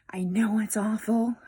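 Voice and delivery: whispered, gentle reassurance. Real, not acted. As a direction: hush it like a secret comfort. Empathizing with viewers.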